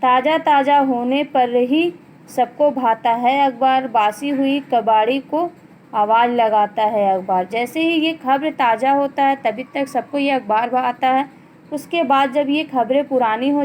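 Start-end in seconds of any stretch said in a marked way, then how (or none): 0.0-7.5 measured classroom poem reading; children's poem recited by a teacher; poem recitation. Acted. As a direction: read the verse out line by line, falling at each close. Reads the poem aloud.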